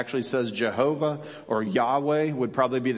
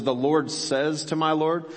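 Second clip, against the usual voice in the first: my leaned on, a little higher; stressed my; 3 semitones higher than usual. Shown as a demonstration. Pastor rereading the verse to stress my Lord. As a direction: weigh the words my Lord. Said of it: "says is not a strong enough thing".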